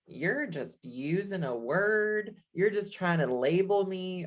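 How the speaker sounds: put-on a light Southern accent, drawn out slowly. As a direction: slip into a mild Southern US accent. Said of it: "I don't know why I'm doing a Southern accent".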